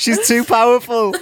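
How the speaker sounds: helpless laughter, high and loud laughing fit.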